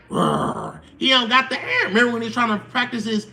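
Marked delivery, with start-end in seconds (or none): 0.1-0.8 weak cub roar. Retold or imitated. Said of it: "Simba is like".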